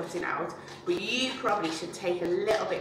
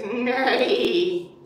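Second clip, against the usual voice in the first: mock neigh; 4 dB louder than usual. Shown as a demonstration. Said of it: "Or maybe your donkey goes".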